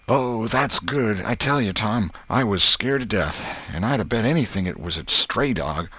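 Huck's relieved voice. Acted. Huck tells Tom he was scared, relieved. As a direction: draw out the relief, then confide.

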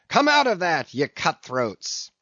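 a furious sea captain roaring at mutineers; roared. Acted. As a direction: bellow it across the deck. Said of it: "roared the captain".

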